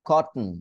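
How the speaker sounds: "কটন" with the T held back, then a hummed n; "কটন" as kot, catch, n; glottal stop T. Shown as a demonstration. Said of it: "একটু দেখেন".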